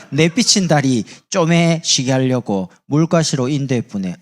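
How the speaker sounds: slow, loud Jeolla dialect reading; 전라도 사투리. Shown as a demonstration. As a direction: stretch it out in broad Jeolla dialect. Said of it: "전라도 사람 이래 말합니다". (전라도 사투리로 느리고 크게)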